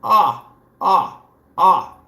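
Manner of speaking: high, loud mocking whimper; mock whimpering rival. Taunting a rival in his channel, high mock whimper. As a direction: whine like a beaten rival to taunt him. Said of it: "I'll be at your channel going".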